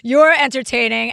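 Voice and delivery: a mild Brooklyn twang on "You're entertaining"; Brooklyn accent. Retold or imitated. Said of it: "That's my Brooklyn accent".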